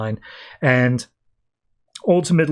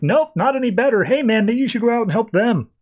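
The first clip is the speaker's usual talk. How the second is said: mock sarcasm; 9 semitones higher than usual. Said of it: "It's just like".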